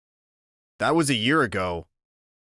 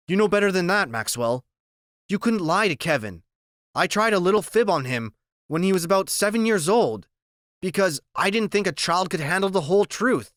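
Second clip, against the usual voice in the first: doctor voice; 6 semitones higher than usual. Acted. Doctor answers the boy.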